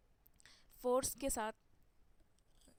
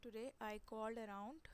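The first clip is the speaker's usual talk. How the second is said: slow example; much slower than usual. Shown as a demonstration. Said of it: "तो आप बोलोगे".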